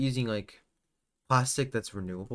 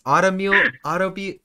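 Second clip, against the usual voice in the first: breaking into laughter on a word; giggling while trying to say it; laughing; 5 semitones higher, 8 dB louder than usual. Real, not acted. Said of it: "I can't speak".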